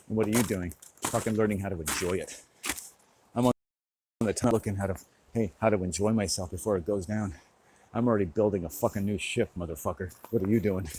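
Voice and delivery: loud, combative rant; angry challenge. Real, not acted. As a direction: throw the question in their face. Confrontational rant at the listener.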